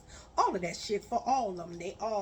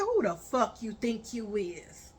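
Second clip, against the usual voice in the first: menacing whisper. Retold or imitated. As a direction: hiss the threat through your teeth. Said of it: "I said".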